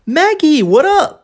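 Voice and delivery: high swooping "Maggie", "what up" with tapped R; T turned to R. Shown as a demonstration. Teacher modelling another form to Maggie, high with tapped T. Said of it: "Outra forma".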